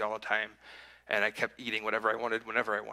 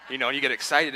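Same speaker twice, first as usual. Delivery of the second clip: laughing; 2 semitones higher, 7 dB louder than usual. Real, not acted. Joking about race times.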